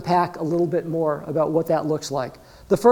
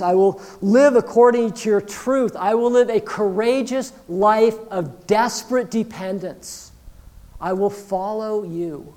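raised, emphatic vow to God; fervent declaration; 2 semitones higher, 3 dB louder than usual. Acted. Believer pledging trust to God, fervent declaration. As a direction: pledge each promise with rising force. Acting out a committed prayer to God.

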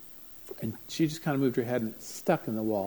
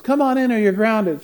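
higher, louder threatening call; mock angry mom; 9 semitones higher, 9 dB louder than usual. Mother calling her skateboarding son inside, threatening. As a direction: warn the kid he's grounded.

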